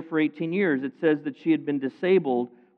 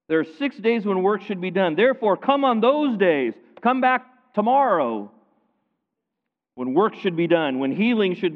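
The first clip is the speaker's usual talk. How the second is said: higher, louder scolding, the lines pressing harder as they go; a rule-bound official snapping at the crowd; indignant synagogue leader; 4 semitones higher, 4 dB louder than usual. Acted. Synagogue leader scolding the crowd about healing, with rising indignation.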